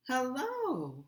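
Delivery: measured, loud phone voice; deep, even voice. A narrator's reading. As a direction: speak evenly and firmly into the speakerphone. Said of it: "in a deep, even voice".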